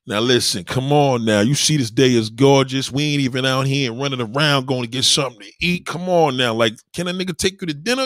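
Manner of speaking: animated come-on, rising toward the end; with character. Shown as a demonstration. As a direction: sweet-talk her with playful personality. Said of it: "With character, you can be like".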